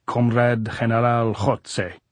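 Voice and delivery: slow, throaty Comrade General Jotze; croaked. A narrator's reading. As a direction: drag it out with a rasping Jotze. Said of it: "he croaked".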